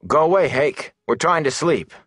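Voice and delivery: high, strained attempt at calm; forced steady voice. A narrator's reading. Rand, scared, tells the intruder to leave in a high tense voice. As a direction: Rand trying to sound steady, voice pitched high. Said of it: "tried to make his voice steady".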